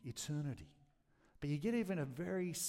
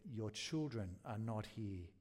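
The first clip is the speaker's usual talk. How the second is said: low, slow, hollow echo voice; awful echo; 4 semitones lower, 5 dB quieter, slower than usual. A narrator's reading. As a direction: let it fall back slow and low like an echo. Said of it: "Only that awful echo".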